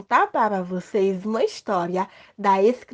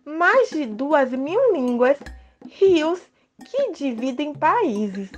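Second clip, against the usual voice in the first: story narration; 3 semitones higher than usual. Acted. Child character narrates story.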